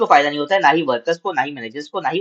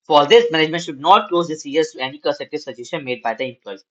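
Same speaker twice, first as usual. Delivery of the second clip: slow, measured reading aloud to students; slow classroom read-aloud; slow textbook reading; much slower than usual. Acted. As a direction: read each phrase out deliberately for the class.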